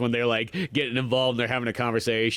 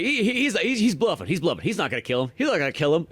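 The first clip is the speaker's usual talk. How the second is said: laughing mock cop; 7 semitones higher than usual. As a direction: stammer through laughter as a nervous cop. Cops nervous on the wire.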